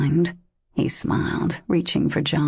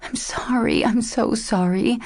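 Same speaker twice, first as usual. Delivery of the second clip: tortured whisper; 6 semitones higher than usual. A narrator's reading. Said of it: "she whispered in a tortured voice".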